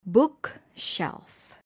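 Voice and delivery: BOOKshelf, weight up front; stress on first part. Shown as a demonstration. Teacher showing a compound noun, BOOK stressed in "bookshelf". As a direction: stress BOOK in "bookshelf", let "shelf" drop. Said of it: "the stress is on the first part".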